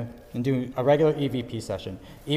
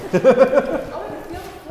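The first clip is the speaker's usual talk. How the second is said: short high laugh; high burst of laughter; 13 semitones higher, 5 dB louder than usual. Real, not acted. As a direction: laugh out loud, pitched up. Laugh after horror film joke.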